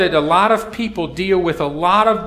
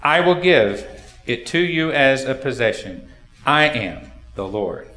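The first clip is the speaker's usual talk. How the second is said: scripture reading; 2 semitones lower than usual. Acted. Pastor reads Exodus to the congregation, solemn reading.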